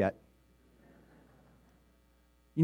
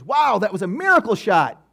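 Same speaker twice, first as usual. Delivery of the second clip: mock praise; 3 semitones higher, 4 dB louder than usual. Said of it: "Jacobson looks at him and goes".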